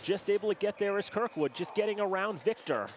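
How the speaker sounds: live hockey play-by-play; play-by-play commentary. Real, not acted. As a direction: keep the call going over the action. Play-by-play after the goal.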